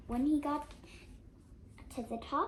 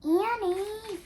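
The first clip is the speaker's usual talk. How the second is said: high, loud call after her; 9 semitones higher, 10 dB louder than usual. Acted. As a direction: yell her name up the hill. Jack calls after sister.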